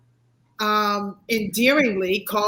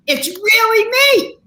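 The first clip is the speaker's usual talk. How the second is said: excited; 12 semitones higher, 7 dB louder than usual. Real, not acted. Joyful self-declaration.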